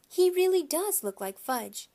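a hint of surprised mom; mother's voice. A narrator's reading. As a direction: marvel at it like a mother. Mother marvels at the resemblance.

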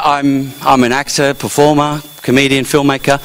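mock-modest listing, pitched low; self-parody. Comic telling the Aussie his jobs, low self-parody. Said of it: "the way I think I sound".

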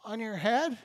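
put-on a brave kid daring to whisper the answer; child pointing out sunglasses, very soft; timid child. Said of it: "one brave child is like".

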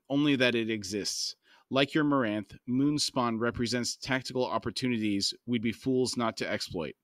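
steady audiobook reading voice; calm novel narration; story narration. A narrator's reading. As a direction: read the chapter aloud, even and measured. Reads novel aloud to podcast.

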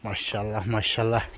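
hushed, fond praise; tender admiration. Real, not acted. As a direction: croon softly at the little goat. Admiring a newborn kid.

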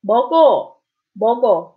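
먹어 with the K carried into the vowel; 먹어, smooth linked G; linked sound. Shown as a demonstration. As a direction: say 먹어 as meo-geo. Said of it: "if an iung follows it".

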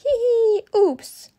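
high giggle then oops; giggling. A narrator's reading. Children giggling in the kitchen, high giggle. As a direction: giggle at the mess.

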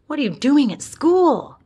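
put-on a boy delighted to find his dog at school; surprised greeting.

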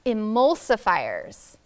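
"emulsifiers" said slowly; slow word model. Shown as a demonstration. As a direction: stretch out "emulsifiers" for the class. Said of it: "The other word we read was".

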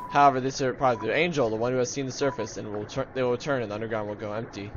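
rapid, even recital of game text; quick read-aloud. Acted. Player reading prophecy of the angel, quick recital. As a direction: rattle through the prophecy.

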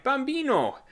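high, loud desperate wail; hysterical cry. A narrator's reading. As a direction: cry out for her lost baby. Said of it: "Over and over she cried".

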